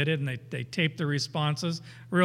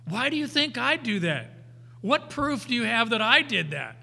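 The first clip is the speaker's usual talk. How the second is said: high, indignant mock denial from a lying suspect; evasive liar; 5 semitones higher than usual. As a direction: play the dodging liar, higher. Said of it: "They say things like".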